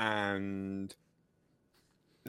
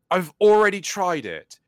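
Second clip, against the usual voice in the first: louder, higher retold exasperation; acted frustrated customer, pitched up; exasperated retort; 6 semitones higher, 7 dB louder than usual. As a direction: push back at tech support, raised voice. Acted exasperated reply to tech support.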